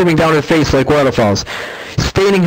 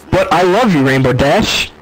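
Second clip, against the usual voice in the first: tearful plea; 4 semitones higher than usual. A narrator's reading. Hurt filly pleading with Dash.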